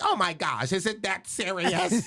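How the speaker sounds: high, drawn-out white lady voice; mock white lady. White lady on the plane reacting to his gloves, high mock voice. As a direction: put on a high, slow, scandalized white woman. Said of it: "A white lady was like".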